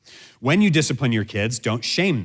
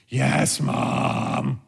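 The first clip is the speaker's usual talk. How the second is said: drawn-out, reluctant compliance; mock begrudging obedience; grudging child. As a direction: drag it out like a sulky kid. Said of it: "We're getting closer, but we're still not there".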